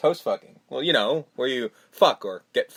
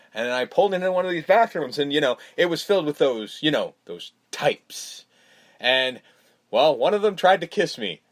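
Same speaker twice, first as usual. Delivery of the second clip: lightly put-on Canadian accent; a hint of Canadian in the quote. Husband explaining himself to the neighbors, lightly Canadian accent. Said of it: "it sounds so Canadian, it's sad".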